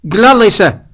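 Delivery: put-on prim officious ensign, a bit drunk; slurring ensign. A narrator's reading. Ensign backing up the captain, high and officious. Hicks, drinking.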